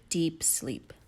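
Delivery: hushed storybook whisper. A narrator's reading. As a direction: whisper it sleepily. Falls asleep.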